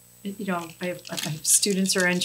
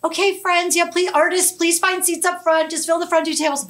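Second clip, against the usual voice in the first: teacher voice; 10 semitones higher than usual. Retold or imitated. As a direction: direct students to sit up front. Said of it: "I'm like".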